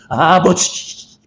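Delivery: mock stammer, word dragged out very slowly; stammering shock. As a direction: stutter out the word as if shaken. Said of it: "말까지 더듬었어요". (충격받아 말을 더듬는 흉내)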